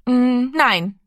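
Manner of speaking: lightly voiced small boy, hesitant; a hint of a shy boy refusing; timid boy. A narrator's reading. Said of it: "woher er den Mut hatte zu antworten".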